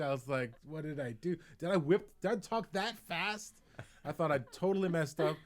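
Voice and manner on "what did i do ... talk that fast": rising, incredulous self-questioning; alarmed disbelief. Retold or imitated. Comedian second-guessing a rushed set, alarmed disbelief. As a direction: build to a high, baffled question.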